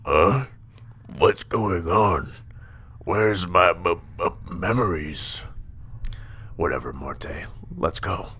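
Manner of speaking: slow, dazed mock voice; dopey mocking voice. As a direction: play it dumb and confused. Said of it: "while you're standing around going".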